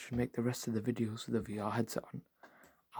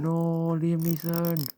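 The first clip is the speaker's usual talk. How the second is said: higher, louder despairing cry; everyone shouting; 6 semitones higher, 7 dB louder, much slower than usual. Retold or imitated. Crowd sees Liam Neeson pop out again, hammed-up shout. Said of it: "Everyone starts going".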